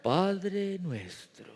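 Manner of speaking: very slow, hushed, drawn-out piety; solemn prayer voice. Acted. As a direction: stretch each word like a mock-holy prayer. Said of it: "Y una voz así como".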